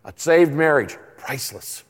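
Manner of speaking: mock announcer with a hushed punchline; commercial voice-over. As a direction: deliver it like a credit card advert. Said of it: "I should do a commercial".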